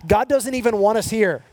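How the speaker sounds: rally the exiles to hide and wait; false prophet's voice. Acted. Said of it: "what they were saying is".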